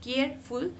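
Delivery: केयरफुल in two beats, केयर then फुल; split into syllables. Shown as a demonstration. Teacher showing pupils two syllables, split into syllables. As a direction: break केयरफुल after केयर. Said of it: "ये दो syllable से".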